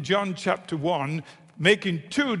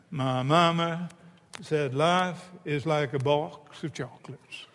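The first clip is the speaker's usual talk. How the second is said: Forrest Gump; 3 semitones lower, 5 dB quieter than usual. Acted. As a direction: put on Gump's Southern American accent. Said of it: "How do you like the accent?".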